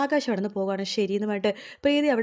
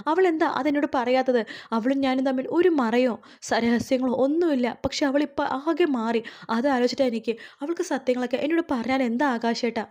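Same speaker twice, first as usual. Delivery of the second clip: mildly acted hurt, pitch raised; tearful pleading; 4 semitones higher than usual. Preethi pours out her hurt to Akash, mock-tearful pleading. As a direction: plead as if upset, without real sobs. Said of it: "എന്ന് പറഞ്ഞിട്ട് കരയുവാട്ടോ".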